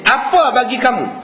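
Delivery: mildly angry retort, falling sharply on apa; a touch of irritation as the wife snaps back; imitating an annoyed wife, understated. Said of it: "dengan nada suara, intonasi yang marah".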